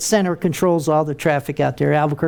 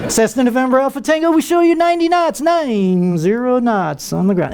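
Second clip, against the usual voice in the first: high, smooth sing-song air traffic controller readout; calm controller voice; 5 semitones higher than usual. Retold or imitated. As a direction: croon the speed like every controller does. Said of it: "Every guy at Center sounds like the same guy".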